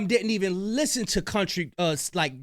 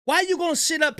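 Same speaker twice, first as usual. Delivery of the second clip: fired-up yell at the clip; heated shout; 6 semitones higher than usual. Real, not acted. Heated reaction to a rap clip.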